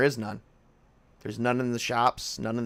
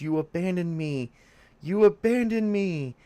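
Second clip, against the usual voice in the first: ghostly voice; 6 semitones higher than usual. Acted. Ghost sister speaks.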